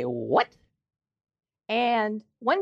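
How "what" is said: low, sudden surprised what. Retold or imitated. A grandfather's own surprised what, dropped low. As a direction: blurt it out, caught off guard. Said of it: "when I get surprised, I'll say".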